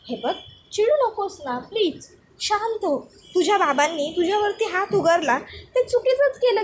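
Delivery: a light put-on voice, coaxing; calm her down sweetly; soothing fiancé. Vivan soothing angry Avani on the phone, coaxing.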